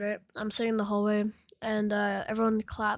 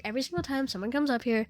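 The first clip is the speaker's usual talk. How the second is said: quick imitation of an annoyed classmate; exasperated complaint; 3 semitones higher, faster than usual. Classmate scolds the teller before the entire class, exasperated. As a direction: rattle off the mock complaint, exasperated.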